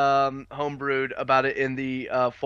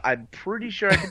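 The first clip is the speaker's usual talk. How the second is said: zombie voice; 6 semitones higher than usual. Acted. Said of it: "He just made himself sound like a zombie".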